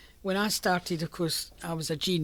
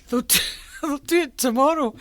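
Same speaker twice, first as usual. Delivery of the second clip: louder, giggling through the excuse; words broken up by real laughter; laughing through words; 9 semitones higher, 10 dB louder than usual. Real, not acted. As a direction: laugh while passing on the message. Laughing while retelling her reply.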